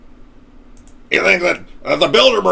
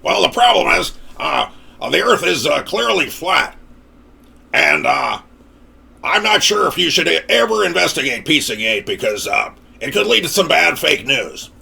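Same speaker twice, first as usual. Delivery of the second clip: mock Alex Jones. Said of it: "You think I talk like this normally?".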